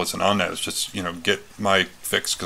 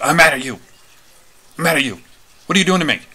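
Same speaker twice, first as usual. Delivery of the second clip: a touch of an angry, hurt complaint, raised; upset protest; 7 semitones higher, 5 dB louder, faster than usual. Retold or imitated. Delirious husband protests restraints to partner, mildly angry and raised. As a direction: retell his agitated outburst, higher and louder.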